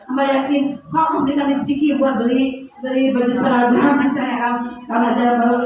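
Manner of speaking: low, humble murmured prayer to God. Shown as a demonstration. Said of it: "Jadi kalau".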